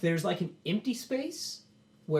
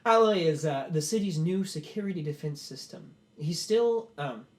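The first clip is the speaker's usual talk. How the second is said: proud inventor's speech. Acted. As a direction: present the invention to the crowd with pride. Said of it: "And then Lalos goes".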